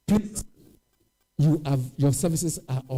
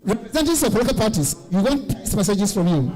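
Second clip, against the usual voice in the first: raised voice calling over the crowd; yelling across the room; 5 semitones higher, 3 dB louder than usual. Real, not acted. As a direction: call out loud to the whole room. Calling guests to lunch, peace messages.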